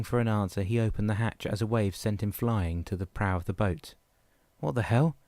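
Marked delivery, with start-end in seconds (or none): 4.6-5.2 louder, higher startled yell; yelled outburst. Acted. Dan yells when a wave sends him flying, louder. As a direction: shout it as the wave throws you. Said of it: "he yelled".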